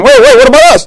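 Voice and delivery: very high squeaky little voice; squeaky mock dead people. Preacher voicing the other dead, squeaky high plea. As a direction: cry out like left-behind ghosts.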